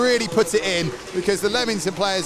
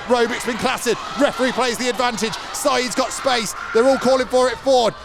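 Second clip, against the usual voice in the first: live play-by-play; 3 semitones higher than usual. Acted. Live match commentary.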